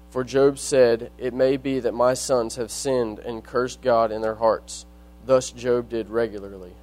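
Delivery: measured reading of Bible verses; scripture reading. Acted. Reads scripture aloud.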